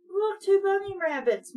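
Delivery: excited cry. A narrator's reading. Mom calls out to the kids about rabbits, excited cry. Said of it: "Mom cried".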